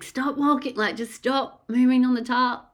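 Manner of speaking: high-pitched, exasperated outburst; annoyed. Retold or imitated. Mum in labour to her partner on the noisy tarp, annoyed. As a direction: snap it loudly, fed up with the noise. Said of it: "I was just so fucking annoyed".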